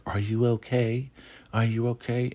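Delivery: high, put-on voice of concern; concerned woman. Joan checking on upset Ruth, high-pitched concern.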